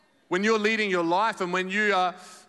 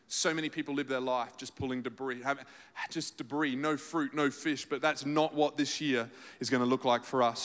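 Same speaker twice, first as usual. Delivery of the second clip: hushed sermon drop; 7 semitones lower, 5 dB quieter than usual. Real, not acted. Preacher quietly warning his congregation, low and soft. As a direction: let the voice sink almost to a murmur.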